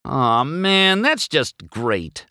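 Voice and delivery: high-pitched whiny complaint; griping. A narrator's reading. McQueen seeing his lucky sticker tarred, griping. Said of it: "McQueen griped".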